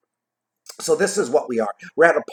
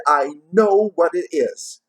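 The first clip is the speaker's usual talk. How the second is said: slow, higher, drawn-out gleeful repeat; slower gleeful cry; 5 semitones higher, 5 dB louder than usual. A narrator's reading. Plump sister repeats her guess to Fred, slow gleeful cry. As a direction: savour the answer, stretching it out. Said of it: "she cried out with glee".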